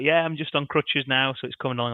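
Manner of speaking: imitating a Jamaican accent, lightly; a light Jamaican accent for the injured player. Player tells a fan about his crutches in a light Jamaican accent. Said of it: "your Jamaican accent there was absolutely on point".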